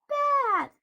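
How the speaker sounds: high, loud monster bellow; roared. A narrator's reading. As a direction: roar the word out. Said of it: "roared the monster".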